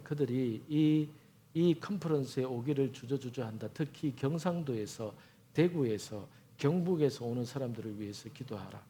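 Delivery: low, soft, measured commands from God; God's quiet instruction. Retold or imitated. A missionary voicing God telling him to pray, soft and low. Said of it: "제 마음에".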